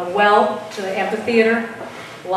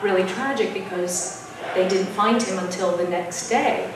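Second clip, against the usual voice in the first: soft, lowered, sombre retelling; very sad; 2 semitones lower, 7 dB quieter than usual. Retold or imitated. Colleague explaining custodian's death in office, retold very sadly. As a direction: let the voice sink over tragic news. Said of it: "very sadly".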